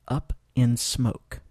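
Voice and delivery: slow, careful teacher model; slow model phrase. Shown as a demonstration. Teacher models the phrase slowly for learners. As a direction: say it slowly for students. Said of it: "écoutez et répétez".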